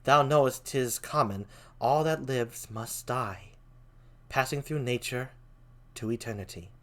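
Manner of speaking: soft, low queen. Acted. Queen urging Hamlet to stop mourning his father, very softly. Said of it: "like, a very soft voice".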